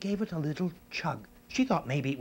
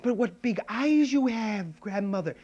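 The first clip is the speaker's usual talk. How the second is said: Red Riding Hood; 8 semitones higher, 6 dB louder than usual. Acted. Girl noticing big eyes, high and wondering. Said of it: "And then she said".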